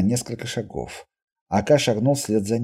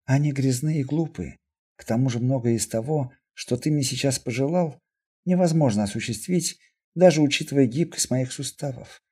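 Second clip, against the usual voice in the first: understated trembling voice; 2 semitones higher than usual. Acted. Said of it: "дрожащим голосом обратилась к Костоправу мутантка". (сдержанно, с лёгкой дрожью)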